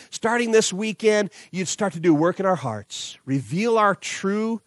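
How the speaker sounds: earnest pastor's prayer; sincere prayer to close the sermon; closing prayer. Acted. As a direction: pray over the congregation, sincere. Closing prayer over music.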